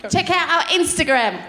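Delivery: lightly imitated British nanny accent; mock nanny accent for a plug; Super Nanny. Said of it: "Okay, do Super Nanny".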